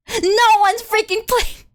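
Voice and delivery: high, slow exasperated cry; exasperated outburst. Real, not acted. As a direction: wail it in comic frustration. Finds nobody to raid.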